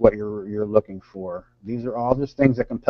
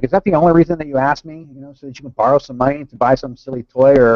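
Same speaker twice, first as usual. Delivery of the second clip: mildly angry retold father, slightly raised; furious father; 4 dB louder than usual. Father scolds son for asking for money, mildly furious. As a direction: scold with restrained indignation. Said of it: "got furious".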